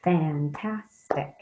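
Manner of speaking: fan-tas-tic said slowly, syllable by syllable; syllables spelled out slowly. Shown as a demonstration. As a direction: stretch fantastic into its three beats.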